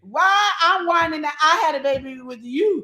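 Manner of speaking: loud, high tirade breaking into laughter; wife mocking husband, laughing and loud; ranting while laughing. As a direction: keep roaring insults, cracking up. Rant continues with laughs.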